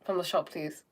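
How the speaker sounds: casual friendly phone chat; breezy hello settling into an easy request; loving, calm tone. Acted. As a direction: switch to sweetly chatting with your sister. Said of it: "in a perfectly loving, calm tone".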